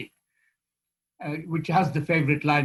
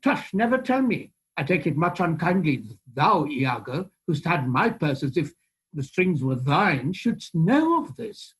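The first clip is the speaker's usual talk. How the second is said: Shakespeare recitation. Shown as a demonstration. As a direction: deliver it like a stage audition. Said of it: "do me a bit then".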